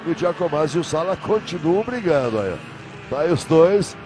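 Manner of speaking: motorsport commentator. Real, not acted. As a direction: lively race play-by-play. Live race commentary.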